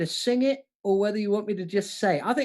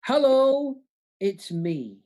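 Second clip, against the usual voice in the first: belted hello; 4 semitones higher, 3 dB louder, much slower than usual. Shown as a demonstration. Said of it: "that's number one".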